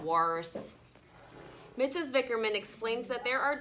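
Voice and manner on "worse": sighed. Acted. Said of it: "then sighed and said".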